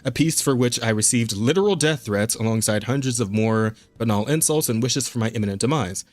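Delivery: steady read of a written piece; reading an article aloud. Acted.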